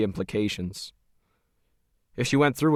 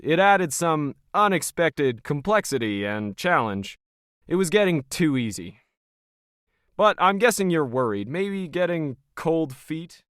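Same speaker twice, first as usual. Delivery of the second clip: lightly voiced smug operator, a touch higher; Logan, cold and smug; 4 semitones higher than usual. Smug Logan sizing up Krisha as hired help, lightly voiced.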